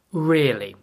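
sharp, offended really; a clipped angry Really?. A narrator's reading. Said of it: "It was an angry really".

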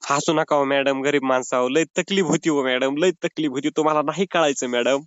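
low, tearful plea; tearful pleading. Real, not acted. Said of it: "sir, तुम्ही रडताय कशाला पण?".

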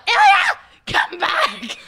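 retold yell. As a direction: yell a name down the hall. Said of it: "I hear David yell".

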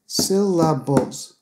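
SYLLABLES drawn out slowly in three beats. Shown as a demonstration. Teacher showing three beats to learners, slow syllable-by-syllable demo. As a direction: break "Syllables" into syl-la-bles, slowly. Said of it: "has three beats".

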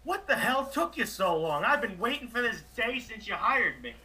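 high-pitched, exclaimed relief; exasperated relief. Acted. Coach learns his manager fired him, exasperated relief. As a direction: burst out high, as if long overdue.

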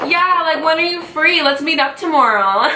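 high, bubbly mock eager voice; mock eager girl. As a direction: gush like a keen girl. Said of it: "you think I'm just gonna be like".

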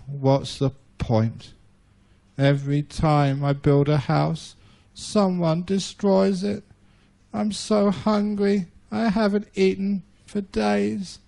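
mildly sorry for himself, drawing it out; lightly voiced weepy spider; mopey sad spider. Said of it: "And he started crying".

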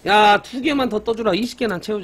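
게임에 명령하듯 크게; demanding call. Real, not acted. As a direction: order the game around, loud. Demanding the game give results.

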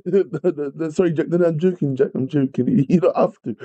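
amused, just-joking apology; laughing protest. Real, not acted. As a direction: take it back through real laughter. Laughing while retracting a joke.

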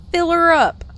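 loud, high call; playful holler. Pretend. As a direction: holler it like an order for a refill. Playfully urging more coffee.

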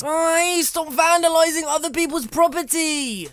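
hammed-up telling-off; mock scolding. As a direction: yell at a trespasser in mock outrage. Scolds a fence breaker.

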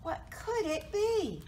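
high, wondering mouse voice; high-pitched storybook puzzlement; startled mouse. A narrator's reading. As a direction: ask it high, like a little mouse. Mouse wonders after squeaking.

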